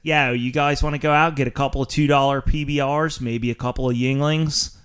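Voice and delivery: light Philly accent, yo flattened to yah; a hint of South Philadelphia bar talk. Shown as a demonstration. Host redoes his call to friends in light Philly accent. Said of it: "I'll do it in my Philly accent".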